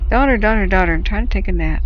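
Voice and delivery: a hint of a tired father calling his chick; voicing the dad bird. Dad bird calling his daughter to let him nap, lightly voiced.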